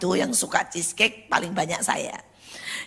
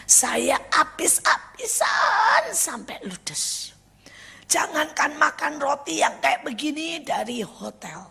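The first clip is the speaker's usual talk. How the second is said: high, drawn-out mock lament; retold tearful call; 5 semitones higher, slower than usual. Bankrupt friend phoning in tears, imitated lament. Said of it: "dia telepon nangis".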